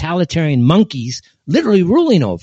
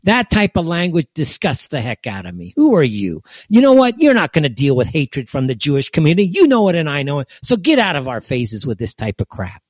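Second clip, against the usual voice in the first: pretend shouting down; 4 semitones higher than usual. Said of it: "start shouting it down and say".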